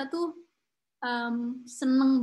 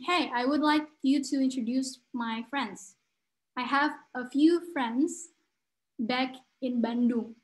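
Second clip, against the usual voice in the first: friendly introduction; slower than usual. Retold or imitated. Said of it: "Misalnya aku bilang ke temen aku".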